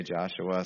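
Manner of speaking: Joshua said "Jah-shua", slow and soft; pronounced with J. Shown as a demonstration. Listing name variants for the congregation, Joshua with a J. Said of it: "some say".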